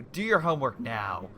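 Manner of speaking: a hint of a stern parent. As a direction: put your foot down on now. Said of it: "It's like yelling at them".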